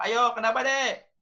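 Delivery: high, loud mock yell at the child; yelling parent. Parent yelling at the child over the broken glass. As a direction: bark it at the kid.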